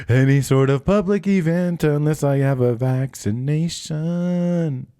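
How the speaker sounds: mock whiny complaint. Drawn-out put-on complaint voice.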